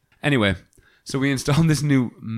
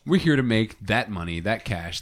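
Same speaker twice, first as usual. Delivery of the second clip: ordinary delivery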